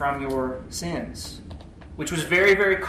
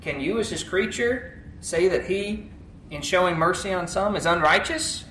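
objector's question; 2 semitones higher than usual. Acted. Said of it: "argues what the other side will say".

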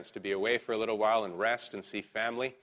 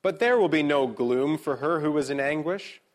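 higher, louder proclaimed verse; emphatic scripture reading; 4 semitones higher, 5 dB louder than usual. Real, not acted. Pastor reads eight twenty-two to the congregation, emphatically.

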